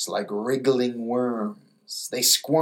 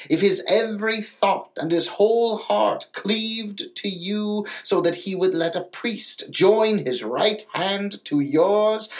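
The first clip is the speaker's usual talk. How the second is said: put-on lightly raised, solemn old grandmother; 5 semitones higher than usual. Grandmother explaining souls to the little mermaid, lightly voiced and solemn.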